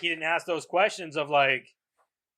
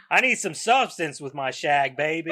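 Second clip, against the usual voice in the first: Austin Powers impression. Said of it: "that was Austin Powers".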